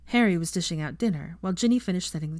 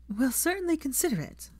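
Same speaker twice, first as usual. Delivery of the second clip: kindly; 9 semitones higher than usual. A narrator's reading. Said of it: "Hermione said kindly".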